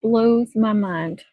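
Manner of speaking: slow, drawn-out "Blows my mind"; slow emphasis. Shown as a demonstration. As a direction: stretch "Blows my mind" out for effect.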